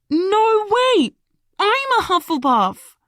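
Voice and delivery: high, loud excited squeal. Acted. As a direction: gush it out, thrilled. Lily thrilled at coincidence.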